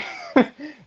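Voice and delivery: short high-pitched burst of laughter. Real, not acted. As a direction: laugh at his own threat. Laughs at own threat.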